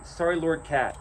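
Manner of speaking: put-on a scared kid tripping over his words; stammering sorry to the giant cat; stammering apology. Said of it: "Balor's son just stammers".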